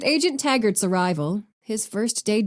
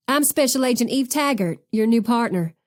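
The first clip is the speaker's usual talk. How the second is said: light Southern twang; Southern accent; 3 semitones higher than usual. Acted. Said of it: "laden with a thick Southern accent".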